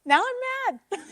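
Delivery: playful mock anger through a laugh; mock annoyed. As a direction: fake irritation cracking into laughter. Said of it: "I'm like".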